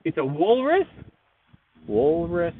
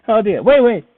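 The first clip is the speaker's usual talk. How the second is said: excited; 5 semitones higher, 9 dB louder than usual. Real, not acted. Sudden idea while drawing.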